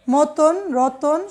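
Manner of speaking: মতন, রতন said slowly, each অ clearly as ও; slow careful demo. Shown as a demonstration. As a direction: spell out মতন, রতন with ও sounds. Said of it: "অকার". (ধীরে স্পষ্ট উচ্চারণ)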